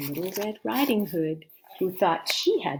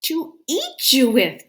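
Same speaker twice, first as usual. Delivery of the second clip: loud, higher pounce; wolf's cry; 7 semitones higher, 11 dB louder than usual. Acted. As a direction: burst out to catch her. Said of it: "cried the wolf".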